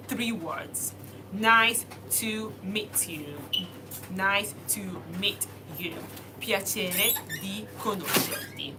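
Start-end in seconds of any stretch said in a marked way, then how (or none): 1.3-3.3 slow demo. Shown as a demonstration. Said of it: "I might be a bit too fast".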